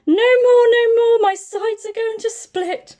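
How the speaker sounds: high, loud pleading through laughter; mock helpless laughing bear; laughing helplessly. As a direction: beg to stop mid-laugh. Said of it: "roared the bear".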